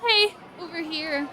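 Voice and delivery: slow cheerful call. Acted. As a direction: friendly call across the room. Voices Mel calling out.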